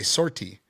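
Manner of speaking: "sortie" with a hard American r, as sor-tee; "sortie" as English "sort-ee", no French sound; very Americanized. Shown as a demonstration. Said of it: "we say it very Americanized".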